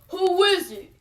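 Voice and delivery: dad calling to the doorbell. A narrator's reading. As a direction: call out to whoever's there. Daddy calling to the door.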